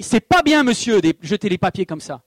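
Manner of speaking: hammed-up busybody calling down; mock scolding neighbor. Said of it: "et qui me dit".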